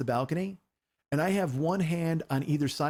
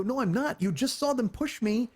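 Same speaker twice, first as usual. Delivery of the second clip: retold protest in a higher pitch; indignant protest; 6 semitones higher than usual. Defending himself to angry girlfriend, indignant protest. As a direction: insist you are not overreacting, voice raised in pitch. Retold argument, denying he overreacts.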